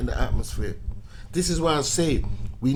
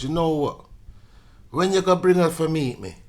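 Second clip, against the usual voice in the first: a lightly voiced mum, higher and louder, eager; mum's voice; 4 semitones higher, 4 dB louder than usual. Son's mum pushing to meet his new girlfriend, eager mum voice. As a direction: play the keen mum asking to meet her.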